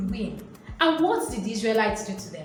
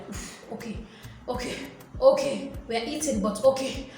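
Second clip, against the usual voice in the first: mock fed up; 4 dB quieter than usual. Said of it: "they started getting irritated".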